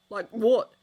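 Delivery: can't believe what he's hearing; incredulous. Acted. Ron doubting Harry's plan, incredulous loud question. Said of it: "asked Ron, incredulous".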